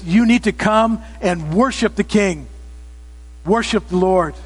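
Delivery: measured, emphatic proclamation; trumpet-like call. Acted. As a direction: sound the summons, leaning on each key word. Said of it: "another trumpet-like voice that says".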